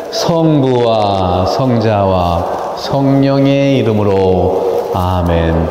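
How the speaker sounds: slow, drawn-out sign-of-the-cross prayer; prayer intonation. Shown as a demonstration. Speaker leading the listeners in a demo, slow intoned prayer. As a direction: lead the invocation with long held syllables. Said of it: "한번 해볼까요? 시작".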